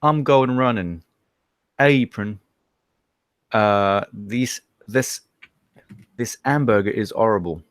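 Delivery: careful tutorial-style Yorkshire accent, phrase by phrase; Yorkshire accent practice. Shown as a demonstration. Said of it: "I've found this little tutorial".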